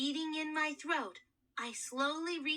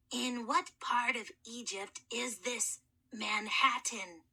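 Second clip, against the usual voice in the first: hoarse mummy voice; 2 semitones lower than usual. Acted. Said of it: "a very hoarse voice".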